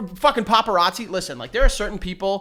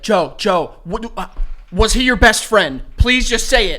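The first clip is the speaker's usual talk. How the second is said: pushy paparazzi; 2 semitones higher, 5 dB louder than usual. Pretend. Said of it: "hire a paparazzi to be like".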